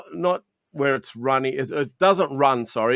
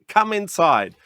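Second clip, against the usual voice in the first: eager call; 4 semitones higher, 4 dB louder than usual. Retold or imitated. Waving customer into store.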